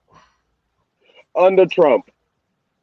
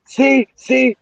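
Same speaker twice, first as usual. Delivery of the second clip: higher, smug told-you-so whine; mocking liberals; 5 semitones higher than usual. Host mocking what leftists would say, smug. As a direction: parody a gloating opponent. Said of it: "the liberals would say".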